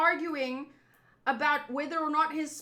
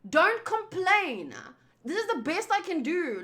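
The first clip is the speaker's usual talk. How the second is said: emphatic; 3 semitones higher than usual. Retold or imitated. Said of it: "I asked in the freaking thing".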